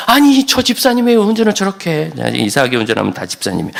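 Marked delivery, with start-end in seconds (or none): 0.1-2.3 mock road rage. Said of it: "저는 운전하다가도 화내거든요".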